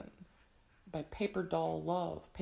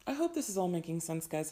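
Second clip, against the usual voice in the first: speaking through a hoarse, worn voice; rough hoarse throat, pushing through. Real, not acted. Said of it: "sorry for my hoarse voice".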